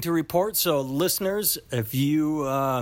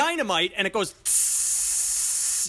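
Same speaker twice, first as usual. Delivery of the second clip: can't believe anyone would do this; incredulous; 8 semitones higher than usual. Real, not acted. Incredulous rant about dynamite.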